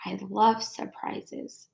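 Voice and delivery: soft, slow hushed line; whispered. A narrator's reading. Jabari on the diving board, soft slow hush. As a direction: breathe it out quietly, almost to himself. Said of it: "he whispered".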